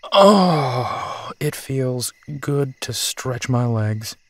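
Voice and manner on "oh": loud, higher groan sliding down; relieved stretching groan. Acted. Big man stretching after long drive, relieved groan.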